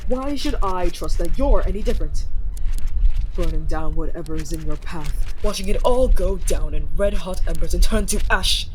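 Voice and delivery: loud furious tirade about burning; furious accusation. Acted. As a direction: rage at the destroyers. Accusing rival kingdom of destruction.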